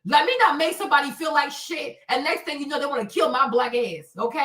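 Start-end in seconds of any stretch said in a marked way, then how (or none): none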